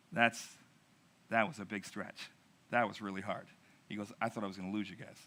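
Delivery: hushed, low retelling of a shaken boatman; quiet, low quoted confession; quiet admission. Retold or imitated. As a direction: drop low and soft, imitating a sobered friend.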